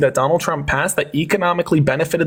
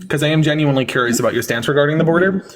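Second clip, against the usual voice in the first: calm reset; 3 semitones lower than usual. Real, not acted. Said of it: "let's take a quick deep breath".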